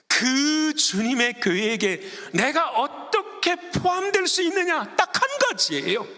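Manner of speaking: high, stretched-out sermon delivery; impassioned pulpit voice; fervent preaching. Real, not acted. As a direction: preach it high, drawing out the key words. Preaches at full force.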